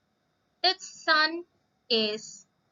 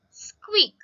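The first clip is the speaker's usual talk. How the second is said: high squeak; 8 semitones higher, 6 dB louder than usual. Shown as a demonstration.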